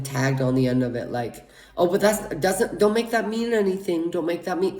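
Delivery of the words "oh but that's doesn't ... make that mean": a higher, hurried mom's voice taking it back; mock mom voice brushing it off; backpedalling mom. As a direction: imitate mom saying it doesn't mean anything. Mom backpedalling on guilt trip.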